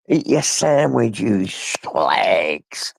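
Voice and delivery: hammed-up yell at the dogs; a jokey far-off holler to the dogs; mock shout. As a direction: playfully bark it out at the pets.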